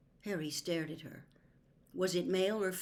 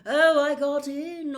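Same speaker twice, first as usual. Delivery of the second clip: higher, slow, airy seer voice; mystical seer; 9 semitones higher, 11 dB louder, slower than usual. A narrator's reading. Trelawney explaining herself to Harry, slow and mystical. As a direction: float the words like a dreamy prophetess.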